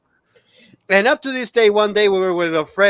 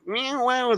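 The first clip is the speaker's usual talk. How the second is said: imitating the sound; 9 semitones higher, 3 dB quieter than usual. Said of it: "something like".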